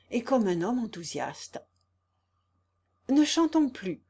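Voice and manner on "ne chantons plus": higher and louder, sudden stop; urgent warning. A narrator's reading. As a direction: cut the singing short in alarm. Consuelo warnt vor Reitern.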